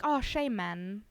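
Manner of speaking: fond "oh, shame", dropping on "man"; cooing at cuteness. Acted. Streamer imitating a reaction to something cute, fondly. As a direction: sympathetic little aww at something cute. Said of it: "when he sees something cute".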